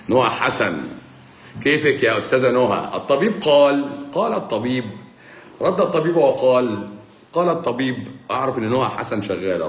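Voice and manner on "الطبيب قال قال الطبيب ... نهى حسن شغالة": mock solemn pronouncement. Doctor on a live stream announcing his verdict, hammed-up and solemn. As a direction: play the grand oracle announcing the doctor's word.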